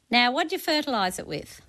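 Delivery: normal talking voice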